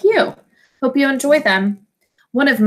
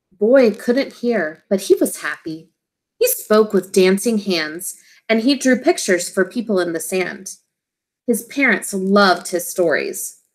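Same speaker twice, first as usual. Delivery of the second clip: put-on storybook voice for young listeners; reading to children. A narrator's reading. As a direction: read it gently to a class of kids. Teacher reads picture book aloud.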